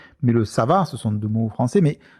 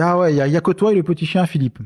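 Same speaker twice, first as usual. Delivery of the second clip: quick, higher scolding retort; grandma's retort; 4 semitones higher, faster than usual. Retold or imitated. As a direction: brush off a complainer, grandma style. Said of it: "ma grand-mère disait ça".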